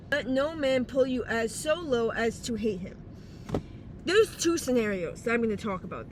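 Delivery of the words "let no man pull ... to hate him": slight lisp from a retainer; Invisalign lisp. Real, not acted. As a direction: talk around an Invisalign tray. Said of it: "If you hear my lisp".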